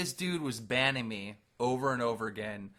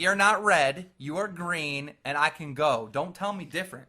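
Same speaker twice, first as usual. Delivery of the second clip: defiant, higher and emphatic; mock arguing; 3 semitones higher, 4 dB louder than usual. Co-host imagines arguing with a stop sign, mock defiant. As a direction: argue back as if it's settled. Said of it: "You would have an argument with him".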